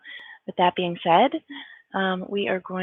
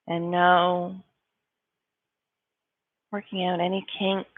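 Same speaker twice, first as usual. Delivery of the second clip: calm yoga-teacher guidance; guided meditation. Real, not acted. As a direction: ease them through each stretch, unhurried. Leads a meditation warm-up.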